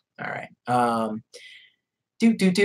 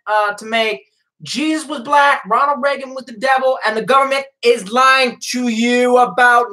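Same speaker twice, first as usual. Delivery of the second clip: higher, proud public-announcement voice; mock announcement; 7 semitones higher than usual. Streamer reading his conspiracy t-shirt aloud, mock announcement. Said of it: "I'm reading a t-shirt, bro".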